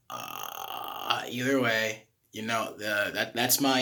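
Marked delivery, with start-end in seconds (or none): 0.1-1.2 very low held fry; low creaky sustained growl; distortion demo. Shown as a demonstration. Coach showing another distortion option, low fry growl.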